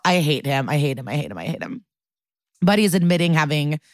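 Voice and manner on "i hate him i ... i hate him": exasperated venting. Real, not acted. Venting disgust at the character.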